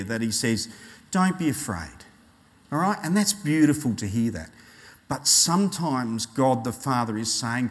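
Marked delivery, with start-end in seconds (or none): 1.1-2.0 gentle, understated reassurance; tender. Acted. God comforting his children, tender and gentle. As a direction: say it kindly, as comfort. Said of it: "the tenderness of God".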